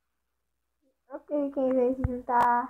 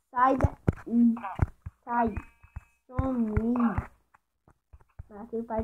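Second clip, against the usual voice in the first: shooing away; much slower than usual. Real, not acted.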